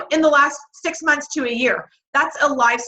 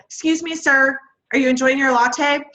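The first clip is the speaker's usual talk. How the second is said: bright polite approach; 3 semitones higher than usual. Pretend. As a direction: chirp it to a stranger. Approaching strangers in café.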